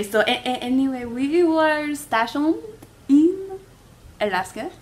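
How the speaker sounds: halting, made-up war story; captain bluffing his legion story to passengers, halting. Acted. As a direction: fumble through an invented past. Martin tells invented legion story.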